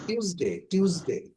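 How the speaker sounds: টিউসডে said tiuz-day; teacher modelling টিউসডে; correct Tuesday. Shown as a demonstration. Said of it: "টুয়েসডে কে আমরা কি বলবো".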